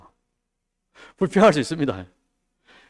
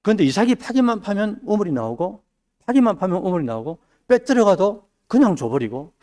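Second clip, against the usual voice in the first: rising sermon build; 4 semitones higher than usual. Acted. Preacher building about Isaac.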